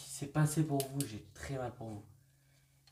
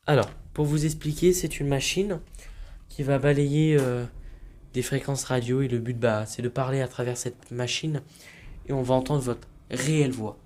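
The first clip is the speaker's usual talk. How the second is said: calling out; 6 dB louder than usual. Real, not acted. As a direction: project to someone unseen. Calling out to spirit.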